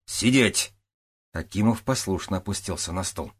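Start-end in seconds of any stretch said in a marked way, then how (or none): 0.1-0.7 sharp order. Acted. Captain orders Akimov down.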